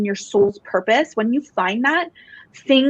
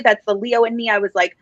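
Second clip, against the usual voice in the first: ordinary talk, nothing marked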